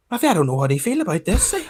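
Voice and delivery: fast, laughing it out. Real, not acted. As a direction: laugh through the line, still shaken. Laughing while recalling.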